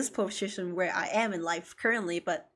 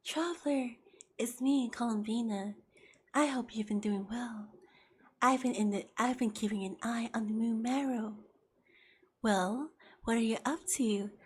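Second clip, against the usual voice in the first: soft, breathy, shy whisper voice; quiet and timid, barely above a whisper; Columbine voice; 9 dB quieter than usual. Retold or imitated. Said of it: "Columbine talks like this".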